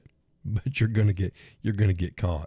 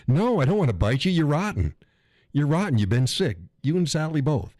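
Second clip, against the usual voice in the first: teasing scold; 6 semitones higher than usual. Real, not acted. Teasing scold of sick chatters.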